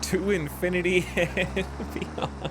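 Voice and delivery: slow, laughing heroic declaration; Buzz Lightyear quote. Pretend. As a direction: proclaim it like a space hero. Quoting Buzz Lightyear while flying.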